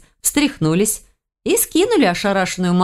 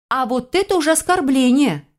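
higher-pitched pouting protest; huffy; 7 semitones higher than usual. A narrator's reading. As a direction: take mock offence, pitch raised. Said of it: "надулась я".

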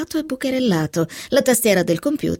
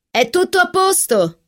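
high-pitched shout, lightly acted; calling out; 10 semitones higher than usual. A narrator's reading. Catherine reassures her from the study, calling out. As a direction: call it from another room. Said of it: "gridò Catherine".

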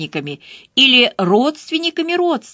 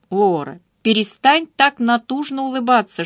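ordinary delivery, nothing marked

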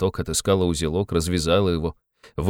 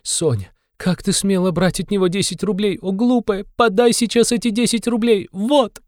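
frantic scolding; 12 semitones higher than usual. A narrator's reading. Katerina scolds Sonya, frantic.

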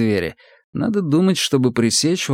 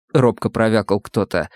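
ordinary delivery

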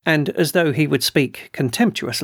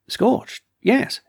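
"Scorched" pitched much higher, eager and emphatic; excited repeat; 10 semitones higher than usual. A narrator's reading. Colonel eagerly confirms to the doctor, excited and high. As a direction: blurt "Scorched, yes" in excitement. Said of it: "repeated the colonel".

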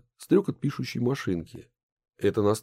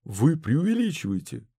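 возмущение; 7 semitones higher than usual. A narrator's reading. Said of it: "возмутился Минц".

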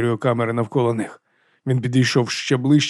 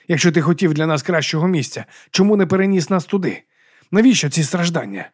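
desperate questioning; 4 semitones higher than usual. Acted. Donald pleads for answers.

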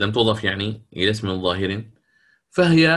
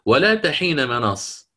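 تلاوة مرتلة; 3 semitones higher, slower than usual. Shown as a demonstration. تلاوة آية في درس قراءات.

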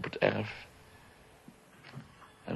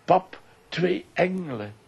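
put-on higher, excited little-boy voice; quoting his son; 10 semitones higher, slower than usual. Son marvels at two stone angels, lightly childlike and higher. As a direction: lightly play the boy's delight. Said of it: "keek naar de twee engelen en zei".

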